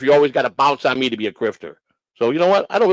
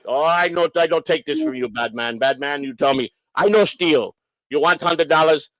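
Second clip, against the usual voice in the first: put-on Polish-accented broken English. Inspector refusing blame from the owner, Polish accent. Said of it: "he sounded Polish to me".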